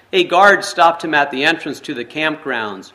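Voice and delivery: measured read-aloud storytelling voice; story narration. A narrator's reading. Pastor reading a forgiveness story to the congregation, storytelling narration. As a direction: read the tale steadily to the listeners.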